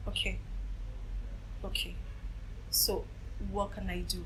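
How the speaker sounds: softly retold, hesitant quiet reply; subdued survivors. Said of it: "they keep quiet".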